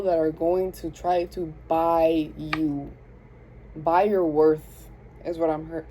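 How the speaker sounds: slow thick Southern drawl; thick Southern accent. Real, not acted. Reader hearing the message in a thick Southern accent. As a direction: slip into a heavy Southern accent. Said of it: "I keep saying a very thick Southern accent".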